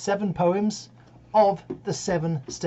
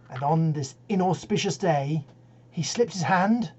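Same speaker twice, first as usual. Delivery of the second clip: lilting cautionary-tale verse; comic poem recitation. Acted. Reciter tells Jim's cautionary tale, lilting verse delivery. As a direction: tell it with mock-solemn storytelling relish.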